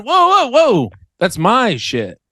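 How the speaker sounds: high loud whoa, then slow "That's my shit"; a hint of an outraged local; mock angry New Yorker. Acted New Yorker yelling at him.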